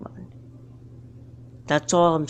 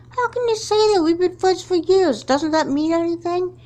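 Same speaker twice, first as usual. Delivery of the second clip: much higher, cracking with hurt; wounded disbelief; hurt pleading; 11 semitones higher than usual. Acted. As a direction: beg her to remember the friendship. Pleading with former friend.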